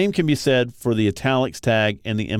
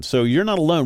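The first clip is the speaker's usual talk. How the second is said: "not" raised and pressed, falling after; emphasis on not; 6 semitones higher than usual. Shown as a demonstration. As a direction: lean into "not" to reassure. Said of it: "We want that to be very strongly emphasized".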